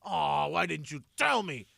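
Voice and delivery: high, loud mock-cheery menace; hammed-up fake delight turning angry; psycho happy dad. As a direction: sing it sweetly like a threat. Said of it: "I go".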